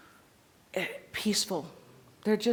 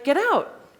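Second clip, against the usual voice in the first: imitating a dog's quick correction; 8 semitones higher, 6 dB louder than usual. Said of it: "It's like".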